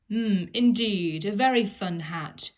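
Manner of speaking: mock-delighted monkeys showing off; cheeky monkeys. Monkeys teasing the angry piggy in the middle, lightly voiced and playful. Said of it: "cried the monkeys".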